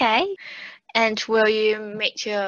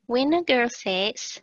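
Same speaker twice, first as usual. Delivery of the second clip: Kiwi accent; 2 semitones higher than usual. Shown as a demonstration. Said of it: "You're more Kiwi than I am".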